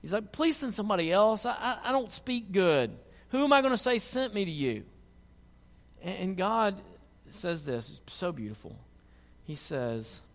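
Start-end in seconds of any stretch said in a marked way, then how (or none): 0.3-4.8 lightly acted pleading whine, pitched up; higher-pitched mock complaint; whiny. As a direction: imitate someone whining to get out of a job. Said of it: "He's kinda whiny".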